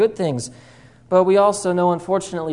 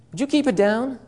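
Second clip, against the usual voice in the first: hushed lion scolding; 6 semitones higher than usual. Retold or imitated. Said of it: "he heard a voice that said".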